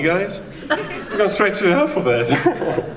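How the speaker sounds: ordinary delivery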